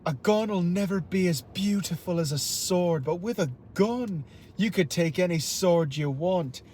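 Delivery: a hint of an Irish-accented villain; Abijah Fowler. Shown as a demonstration. Villain addressing Japanese nobles, lightly voiced Irish speech. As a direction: declaim it with a slight Irish accent. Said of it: "these are Fowler's words".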